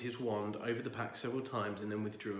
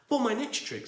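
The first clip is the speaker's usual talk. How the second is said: bear voice; 12 semitones higher, 6 dB louder than usual. Acted. Bear announcing trick.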